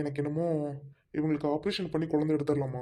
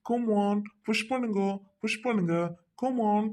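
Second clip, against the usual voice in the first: higher, drawn-out coaxing commands; urging; 4 semitones higher, slower than usual. Acted. Doctor to woman in labour, urging her on. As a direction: coach her through the push.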